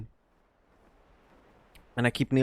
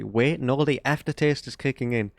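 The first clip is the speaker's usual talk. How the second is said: sudden surprise; 4 semitones higher than usual. Real, not acted. Tasting the cold drink, suddenly surprised. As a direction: snap out a sudden realisation.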